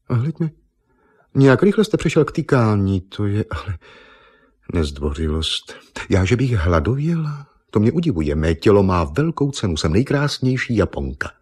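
a vain beauty queen taking offence; offended Miss Nippon. Acted.

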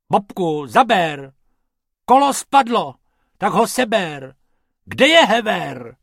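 loud, high bickering. A narrator's reading. Two rabbits squabbling over car repairs, in loud bickering calls. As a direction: shout orders back and forth in a squabble. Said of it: "trochu se hádali. Asi takhle".

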